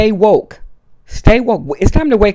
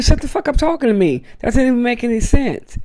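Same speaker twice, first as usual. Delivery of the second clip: acted telling-off; 5 semitones higher, faster than usual. Acted telling-off of nonsense talkers.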